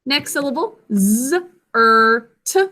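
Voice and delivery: segment "z, er, t" one sound at a time. Shown as a demonstration. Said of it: "two sounds".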